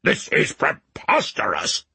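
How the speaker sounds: slow, indignant royal outrage; fuming. A narrator's reading. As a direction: fume it out slowly. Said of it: "the king fumed".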